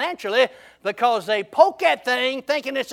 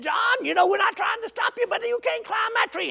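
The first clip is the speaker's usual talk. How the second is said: high-pitched pleading call up to a friend; storyteller's high voice for worried friends; acted warning; 9 semitones higher than usual. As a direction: warn him in a raised, high voice. Retold friends warning John in story.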